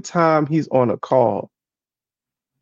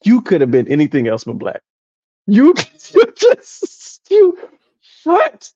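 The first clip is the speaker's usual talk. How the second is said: exasperated; 4 semitones higher than usual. Retold or imitated. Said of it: "'cause I'm like".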